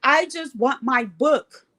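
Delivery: slow, drawn-out tearful whine; mock crying. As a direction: act out a hammed-up crying plea. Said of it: "I'm crying".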